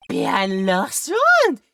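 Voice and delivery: put-on slow European accent with lifted pitch. A local telling Nick about the old man, European accent. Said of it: "the European voice I'm doing".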